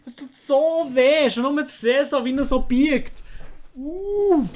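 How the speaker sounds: high pained ow ow ow; wincing in sympathy. Real, not acted. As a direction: cry out at someone else's pain. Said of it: "solche Sachen tun so weh".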